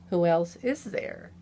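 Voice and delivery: loud sharp snap; snapping. Acted. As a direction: bite the words off, irritated. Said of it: "he snapped".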